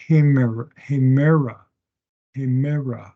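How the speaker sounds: hemera begun with an audible H; rough breathing. Shown as a demonstration. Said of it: "rough breathing".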